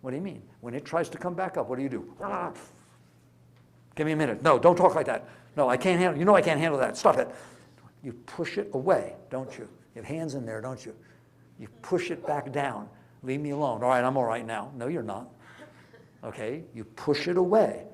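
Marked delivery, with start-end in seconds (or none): 2.2-7.3 louder and louder, pleading and shoving it away; the inner voice begging the memory to stop; defensive inner voice. Acted. A person fighting off a painful memory, loud and pleading. Voicing the mind pushing pain away. 13.2-14.7 defensive inner voice. Acted. Voicing the mind pushing pain away.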